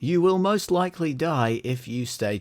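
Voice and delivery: put-on Queensland accent announcer, a touch of. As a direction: read a PA message in a Queensland accent. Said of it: "which Australian accent do you want".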